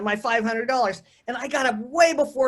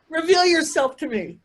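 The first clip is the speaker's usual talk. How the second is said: retold cry; 6 semitones higher, 3 dB louder than usual. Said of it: "I'm screaming up to the sky".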